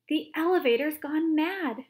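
high, loud panic; panicked shouting old man; alarmed shout. A narrator's reading. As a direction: shout in fright. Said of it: "shouted Grandpa Joe".

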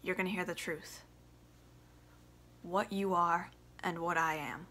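bitter son confronting father. Acted. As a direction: hold back the anger, simmering. Audition monologue as Biff, quiet start.

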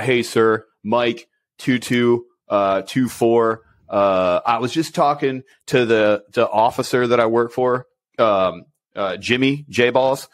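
lightly voiced clueless young soldier, slow; a hint of a naive private speaking up; mock junior soldier. Mocking a junior soldier in briefing.

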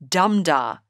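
"dum-dar" with the first beat strong, the second light; trochee beat. Shown as a demonstration. Teacher sounding out a trochee, first beat strong. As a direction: hit "dum", let "dar" fall away. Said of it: "That beat is called a trochee".

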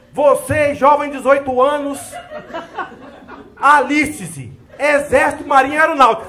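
hammed-up army ad announcer, laughing through it; recruitment ad voice. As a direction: sell the army like a mock TV ad. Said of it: "a propaganda de alistamento".

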